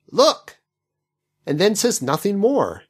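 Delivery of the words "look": shouted high and loud, rising. Acted. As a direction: shout the one word. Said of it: "he just shouts the word".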